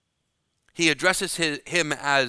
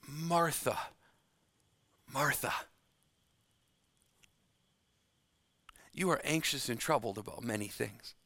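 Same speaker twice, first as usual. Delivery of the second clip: compassionate plea; 7 dB quieter than usual. Acted. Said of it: "It's a compassionate plea".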